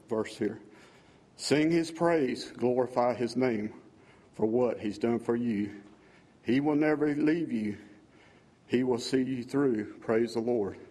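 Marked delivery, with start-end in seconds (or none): 1.4-10.8 slow, measured reading of a hymn's words; solemn recitation of song lyrics. Acted. Worshipper reading his new hymn to the congregation, slow and reverent. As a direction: read each line like a prayer, drawing it out. Reads the second verse.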